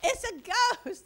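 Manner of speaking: slow, loud, high mock fright; mock scared cry. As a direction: act out the disciples' panic, drawn out. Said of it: "They go".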